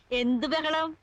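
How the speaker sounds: slow denial after a nervous laugh; sheepish, slow bluff; feigned innocence. Acted. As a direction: laugh it off, drawing out the words. Caught shouting, feigns innocence with laugh.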